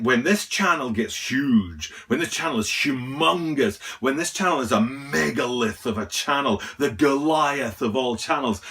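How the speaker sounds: mock-grand exaggeration, key words stretched; hammed-up sarcastic boasting. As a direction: hype it up with tongue-in-cheek grandeur. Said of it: "I'm being sarcastic".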